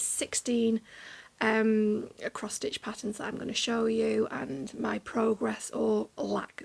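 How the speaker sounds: creaky vocal fry voice; tired voice with vocal fry. Real, not acted. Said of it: "I'm really sorry about the vocal fry with my voice at the moment".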